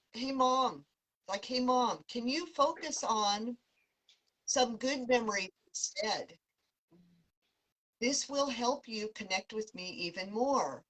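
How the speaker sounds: a hint of an eager girl calling to her mom; vibrant voice. Daughter calling to her mom for attention, mildly vibrant. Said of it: "really a vibrant voice".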